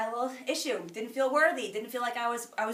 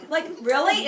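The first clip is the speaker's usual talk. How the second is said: louder, laughing disbelief; 3 semitones higher, 4 dB louder than usual. Real, not acted. Laughing at the idea anyone would refuse, laughing loud. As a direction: laugh through the question. Laughing at her own pitch.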